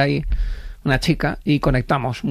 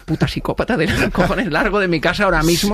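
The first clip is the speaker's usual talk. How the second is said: retold angry eviction; mock furious; 3 semitones higher than usual. Man kicking the date out, mock furious. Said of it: "Y yo".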